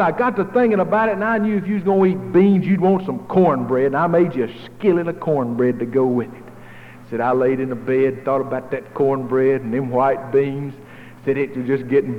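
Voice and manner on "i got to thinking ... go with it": lightly voiced kindly neighbor, higher; a friendly neighbor at the door, slightly lifted. Neighbor at the door offering beans, friendly higher voice.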